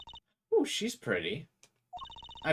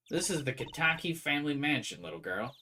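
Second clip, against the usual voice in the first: a hint of a sultry mob wife; husky voice; 3 semitones higher than usual. Wife introducing the family mansion in a mild husky voice. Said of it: "that's my best husky voice".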